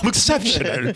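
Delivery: mock the bad British accent, overworking the top lip; mimicked British accent. Repeating the actor's line in mockery, fake British accent. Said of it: "top lip about to run out the room".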